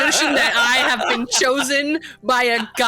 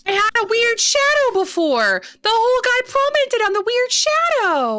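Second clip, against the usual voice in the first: squeaky high character voice, much higher; high gnome voice; 13 semitones higher than usual. Acted. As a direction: pitch way up like a tiny gnome. Gnome player voices her character.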